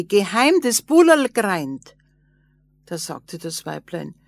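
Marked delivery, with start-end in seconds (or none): 0.0-1.9 calling again. A narrator's reading. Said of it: "kam der Mann wieder und sagte".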